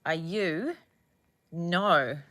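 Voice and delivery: normal talking voice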